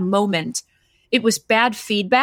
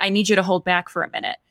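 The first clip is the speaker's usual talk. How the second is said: retold curt order; 2 semitones lower, faster than usual. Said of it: "Said it like that".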